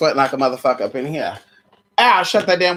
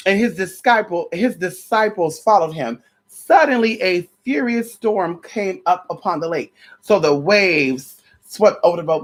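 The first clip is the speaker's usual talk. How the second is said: measured preacher read-aloud; scripture reading. Acted. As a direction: read it like a sermon text. Reads scripture in preacher style.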